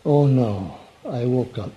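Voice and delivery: low, sinking dismay; dismayed waking groan. Acted. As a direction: say it like waking up to another bad day. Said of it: "awakened and said to yourself".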